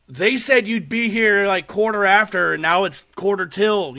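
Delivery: put-on a flustered old lady griping at Death. Old lady griping at Death about lateness, flustered and high. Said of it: "she's bewildered and stressing out".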